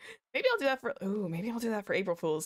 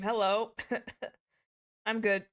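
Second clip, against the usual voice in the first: normal talking voice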